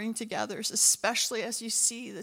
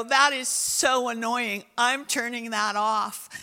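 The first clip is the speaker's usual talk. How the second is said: annoyed dismissal; 7 dB louder than usual. Retold or imitated. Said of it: "some people are gonna go".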